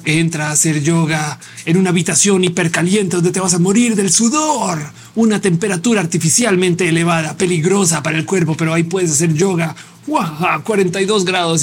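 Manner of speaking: hyped-up studio advertising voice; mock yoga sales pitch. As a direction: sell the scorching room like an infomercial. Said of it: "siempre te lo venden como".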